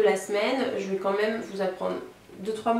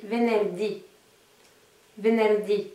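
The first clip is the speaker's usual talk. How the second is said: venerdì with the accent on the closing DÌ; stress on last syllable; slower than usual. Shown as a demonstration. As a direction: lean on the final syllable of venerdì. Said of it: "l'accentuation sur la dernière syllabe".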